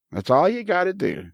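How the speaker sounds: high, chirpy mock computer prompt; mockingly easy-sounding instruction, pitched high; computer message. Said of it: "kept giving me this message saying".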